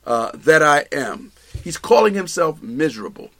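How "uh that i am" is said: slow, lower, mournful reading; mild sorrow voicing Paul's own words; slow lament. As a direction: drag it out like a weary confession. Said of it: "when you read these words".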